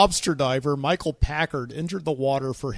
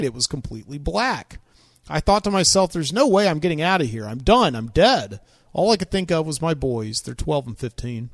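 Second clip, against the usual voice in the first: put-on Southern accent. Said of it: "gave him a Southern accent just now".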